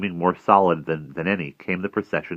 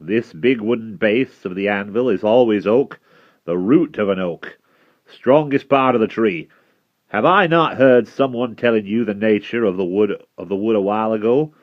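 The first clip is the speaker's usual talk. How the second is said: put-on loud, higher-pitched smith explaining to the boy; smith's character voice; 4 semitones higher, 6 dB louder than usual. A narrator's reading. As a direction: speak up as the smith, voice raised and full of emphasis. Smith speaks as story figure.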